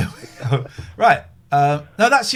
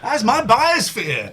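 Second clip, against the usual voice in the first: whispering; 8 semitones higher, 3 dB louder, slower than usual. Acted. Gloating over his biosphere.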